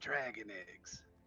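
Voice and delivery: hushed, low whisper. Speaking as a character into another character's ear, whispering. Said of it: "He'll whisper into his ear".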